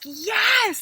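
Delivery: high, loud gleeful yelp; eager yes. Retold or imitated. Couple answering the GPS, a high gleeful yes. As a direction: jump at the offer of a break. Eager reply to rest offer.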